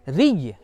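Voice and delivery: रिय with a thin r and held doubled y; light र, then press into the y of रिय; shown pronunciation. Shown as a demonstration. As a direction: model रिय for students to copy. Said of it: "इस तरह करो".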